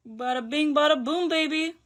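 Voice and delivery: rising cheesy bada boom, baby; cheesy hype. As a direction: say it like a cheesy showman. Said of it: "Please pretend I didn't just say that".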